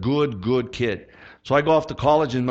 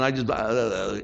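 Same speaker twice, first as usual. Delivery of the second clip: mock tongue-tied stammer, lower; imitated fumbling; 5 semitones lower, 4 dB quieter, slower than usual. Re-enacting his nervous witnessing to George, imitated fumbling. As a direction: trip over the words in a mumbled re-enactment. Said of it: "I was fumbling. I was stumbling".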